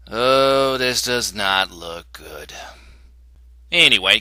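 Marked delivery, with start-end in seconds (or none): 0.1-2.5 hushed dread. Acted. Reviewer looking at what's happening now, hushed and worried. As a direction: let it out slowly under your breath. Ominous reaction to events.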